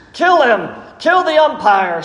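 high-pitched heckle from the stands; acted crowd shout, not full volume. A narrator's reading. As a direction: call it out like an irate fan, pitch jumping up. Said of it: "shouted one in the stand".

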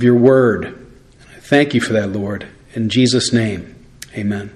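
measured, reverent prayer with pauses; public prayer. Real, not acted. Leads prayer before reading.

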